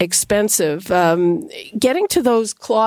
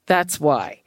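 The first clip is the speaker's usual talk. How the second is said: talking through a face mask; muffled. Real, not acted. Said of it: "if I sound a bit muffled".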